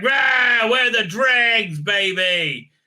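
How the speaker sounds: high, loud swaggering creature voice; hammed-up monster bragging; mock monster boast. Dregs creatures boasting, mock roaring swagger. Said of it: "the Dregs are like".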